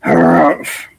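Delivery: short scornful huff. Acted. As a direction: huff it out dismissively. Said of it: "the barber huffed".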